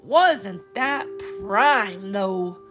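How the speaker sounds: very slow, loud savoring; musing relish. Acted. Joel remembering pudding, slow relish. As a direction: savor the memory slowly.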